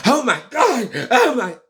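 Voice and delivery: high, loud mock panic, oh my God; mock freak-out. Imitating shocked parents freaking out about sex. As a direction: play the scandalised parent.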